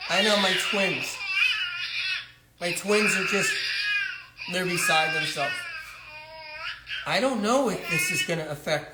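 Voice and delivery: choking up, half-crying; tearful. Acted. Mother telling her aunt about the twins, tearful and cracking. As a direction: voice cracking as she despairs.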